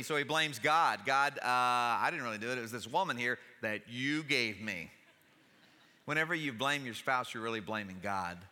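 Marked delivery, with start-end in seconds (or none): 1.1-4.9 Adam making excuses. Retold or imitated. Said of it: "But he says".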